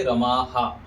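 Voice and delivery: रमाहा ending in open "haa"; correct long ending. Shown as a demonstration. Teacher models for students, रमाहा with a full "haa". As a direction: repeat the आ after the h in रमाहा. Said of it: "ऐसे बोलेंगे".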